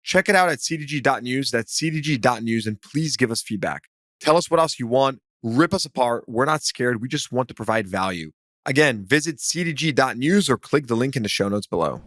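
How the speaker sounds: upbeat podcast ad read; promo read. Real, not acted. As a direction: read it as a friendly plug with lifted phrase openings. Reads a promo for listeners.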